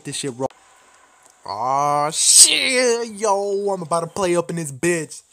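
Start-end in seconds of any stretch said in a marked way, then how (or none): 1.4-5.2 excited yell. Real, not acted. Gamer yelling as his first match loads. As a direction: shout it out as the match starts.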